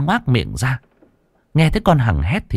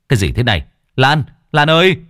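alarmed; 4 semitones higher, 5 dB louder, faster than usual. Acted. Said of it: "chạy sang xem thì hoảng hốt".

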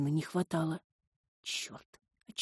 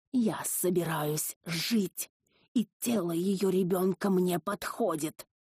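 drawn-out, cold creature; slow demon voice; slower than usual. Acted. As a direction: state it slowly like a predator. Possessing entity explains its plan.

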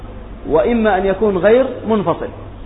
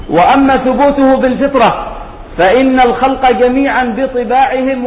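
raised, projected voice for reading out a text; formal recitation of a scholarly text; reading text aloud; 4 semitones higher than usual. Real, not acted.

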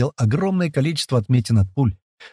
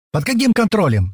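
higher, mildly indignant woman; 9 semitones higher than usual. A narrator's reading. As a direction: push back, outraged. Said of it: "снова возмутилась эта тётка".

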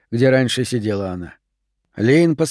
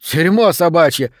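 much higher, louder cheering; jeering shout; 7 semitones higher, 4 dB louder than usual. A narrator's reading. A classmate to Mr Kramer: loud jeering shout. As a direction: egg the teacher on. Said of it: "посоветовал кто-то из ребят".

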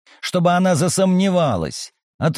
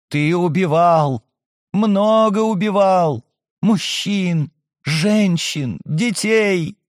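eerie accusing voice; 4 semitones higher, slower than usual. Acted. Possessed girl accuses the major.

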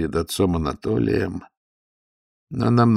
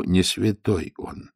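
authoritative; 3 dB quieter, much slower than usual. Acted. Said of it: "авторитетно заявил истопник".

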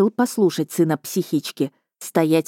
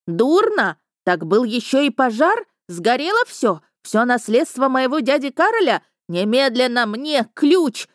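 panicking lady; 7 semitones higher than usual. A narrator's reading. Lady panicking, demanding key.

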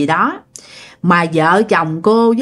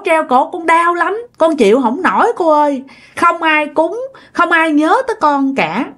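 sad plea that climbs higher and higher; a grieving ghost begging, pitch rising toward the end; tearful ghost pleading, rising higher; 4 semitones higher than usual. Retold or imitated. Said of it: "Rồi cổ khóc".

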